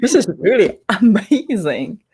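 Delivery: breathless amazed wow with a laugh; wide-eyed and delighted, laughing through it; amazed self-quote. Retold or imitated. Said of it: "and I go like".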